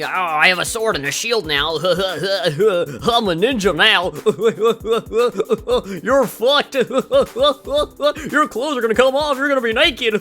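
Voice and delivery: put-on high giggling girl voice, slow; squeaky teasing laughter; giggly anime girl.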